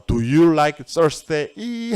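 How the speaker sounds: Thursday lifted at the end of the question; rising question. Shown as a demonstration. Teacher showing how the question ends on a rise. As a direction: raise just the end of the sentence. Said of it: "끝에만 올리시면 됩니다".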